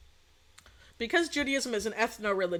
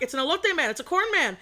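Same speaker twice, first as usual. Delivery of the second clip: higher, insistent excited explaining; retold excitement; 5 semitones higher, 3 dB louder than usual. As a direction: act out excitedly spelling it out. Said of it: "I got so fucking excited".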